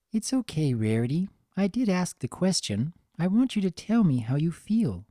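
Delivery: lightly voiced gentle Fluttershy. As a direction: reassure her kindly.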